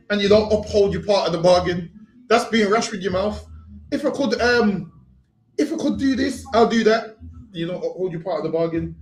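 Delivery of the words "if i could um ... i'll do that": mock pleading promise. Preacher mimics someone bargaining with God, higher mock plea. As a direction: parrot the empty bargain, pitched up.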